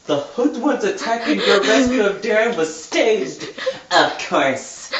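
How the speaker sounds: a hammed-up camp villain revealing his scheme; campy villain voice. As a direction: gloat over the plan, half laughing. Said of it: "turn on my super fag voice for Steve".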